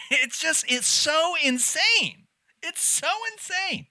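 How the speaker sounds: high-pitched laughing words; laughing disbelief. Real, not acted. Watching a crazy clip, laughing in disbelief.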